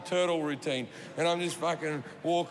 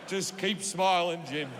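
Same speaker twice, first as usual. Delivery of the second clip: chirpy self-pep; 3 semitones lower than usual. Retold or imitated.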